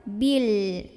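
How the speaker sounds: "Bil" with the l held, tongue on the gum; unbounced l. Shown as a demonstration. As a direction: hold the final l of "Bil" without releasing it. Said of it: "jangan sampai mantul".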